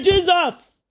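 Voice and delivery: high-pitched exclamation; storyteller's mock shout; acted shout of Jesus. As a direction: cry out "Jesus" high, as a retold outburst. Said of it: "Not shout Jesus here".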